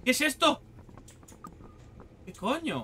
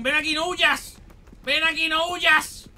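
raised, high-pitched call; calling after someone; 5 semitones higher than usual. Real, not acted. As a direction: holler after the runaway creature. Llama al gritón que huye. (llamando a gritos al que huye)

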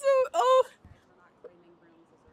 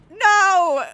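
dismayed cry; 3 semitones lower, 5 dB louder than usual. Real, not acted. Lost the yoga ball.

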